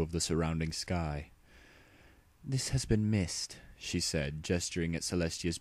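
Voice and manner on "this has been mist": weary princess. Acted. Luna speaking, tired and low.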